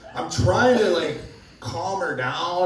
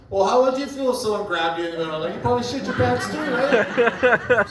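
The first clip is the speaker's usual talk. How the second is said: fast, higher mock chicken voice, indignant; 7 semitones higher than usual. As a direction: rattle it off as an offended chicken. Chicken's imagined voice in joke.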